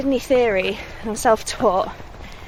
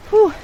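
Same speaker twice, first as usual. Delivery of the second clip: breathy whew; 10 semitones higher, 8 dB louder than usual. Real, not acted. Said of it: "once I've had a little breather".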